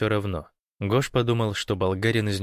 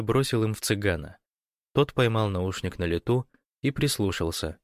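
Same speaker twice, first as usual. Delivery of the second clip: ordinary delivery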